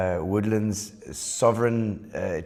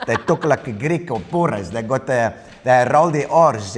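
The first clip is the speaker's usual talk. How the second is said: put-on flattened Italian accent with rolled R's; Italian-Afrikaans accent; 2 semitones higher, 5 dB louder than usual. Guest showing Italians who learned Afrikaans first, flat Italian accent. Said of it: "They got Italian accent like this".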